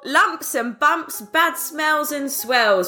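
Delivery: slow, sing-song street hawker; market barker voice. Pretend. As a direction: sell the cures like a barker. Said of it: "do your intro voice".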